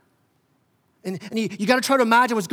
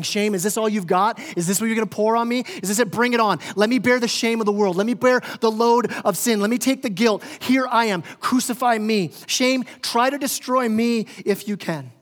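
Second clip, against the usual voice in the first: raised, driving taunt thrown at shame; mocking defiance; 3 semitones higher than usual. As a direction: dare it to do its worst. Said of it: "it is mocking the shame".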